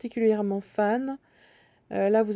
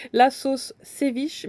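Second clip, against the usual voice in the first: laughing; 3 semitones higher, 3 dB louder, much slower than usual. Real, not acted. Laughing at her own pun.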